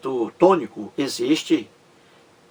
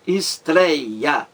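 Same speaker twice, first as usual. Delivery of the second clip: "estreia" in three measured beats; teacher spacing out the syllables of "estreia". Shown as a demonstration. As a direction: separate es, trei, a in "estreia". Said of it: "três sílabas".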